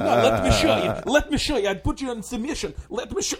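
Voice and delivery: high, loud, insistent Ukrainian fighter; hammed-up eager trainer forcing a demonstration; pushy Ukrainian trainer. Kickboxing trainer grabbing castmates to show moves, mock pushy insistence.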